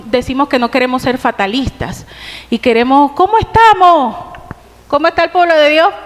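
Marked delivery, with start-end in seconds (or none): 3.1-5.9 raised, rousing call to the church; calling out to congregation. Real, not acted. Preacher calls out to his congregation, rousing and loud. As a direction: lift the room with a louder, higher question.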